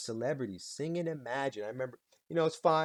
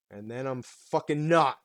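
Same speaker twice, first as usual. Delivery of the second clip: sudden extreme; 7 dB louder than usual. Shown as a demonstration. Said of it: "they're very extreme".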